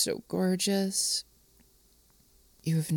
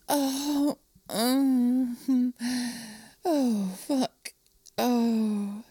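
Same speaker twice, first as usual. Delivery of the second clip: higher, breathy moans easing off; aroused moaning; 4 semitones higher, much slower than usual. Acted. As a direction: moan breathlessly, then let it subside. Moaning at the scene's climax.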